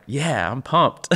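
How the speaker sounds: loud, high, drawn-out hype ahead of laughter; mock pumped-up cheer. Joking about sad songs as motivation, mock excited cheer. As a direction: cheer yourself on, jokingly overdone. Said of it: "even feel motivated".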